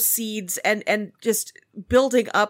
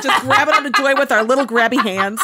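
laughing; 4 semitones higher, 6 dB louder than usual. Real, not acted. Laughing at their own joke.

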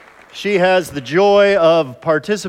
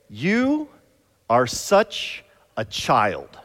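mock wife; 5 semitones lower, 3 dB quieter, much slower than usual. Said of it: "my wife will say this to me".

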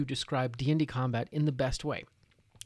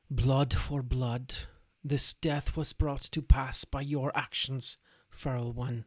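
grave vow; 2 semitones lower, slower than usual. Acted. Wizard curses the orc.

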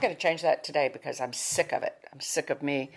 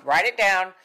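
Write it down said quick and louder; louder repeat; 2 semitones higher, 5 dB louder than usual. Shown as a demonstration. Teacher repeating the instruction, louder. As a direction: punch Write it down as a reminder.

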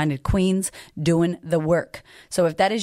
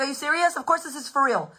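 higher-pitched retort to husband; mock incredulous; 5 semitones higher than usual. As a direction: throw it back in high disbelief. Retorting to doubting husband in story.

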